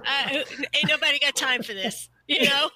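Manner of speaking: laughing through the words. Real, not acted. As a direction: chuckle it out, amused. Joking quote while laughing.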